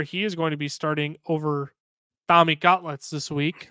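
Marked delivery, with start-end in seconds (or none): 2.3-3.7 a slightly slowed, half-hearted mock Italian accent; bad Italian accent. Naming the quarterback Tommy Cutlets, badly faked Italian accent. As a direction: toss off a terrible Italian accent on the nickname. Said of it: "That was a terrible Italian accent".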